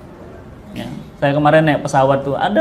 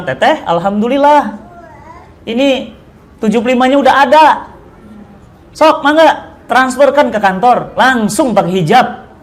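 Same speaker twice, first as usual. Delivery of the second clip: excited good news; 7 semitones higher, 3 dB louder than usual. Retold or imitated. Ustadz tells stewardess money is ready.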